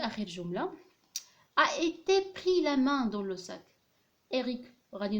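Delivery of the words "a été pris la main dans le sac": slow dictation reading. Shown as a demonstration. Dictating the example sentence.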